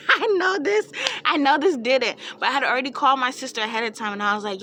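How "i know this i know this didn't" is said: high, loud mock wail; outraged disbelief. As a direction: retell it in squealing, hammed-up outrage. Mock outrage at the trainer's insult.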